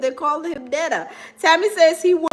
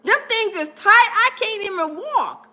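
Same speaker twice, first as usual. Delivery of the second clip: higher, indignant straight-guy protest; higher, outraged macho complaint; straight man refusing; 8 semitones higher than usual. Retold or imitated. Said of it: "a normal, average, straight man is gonna be like".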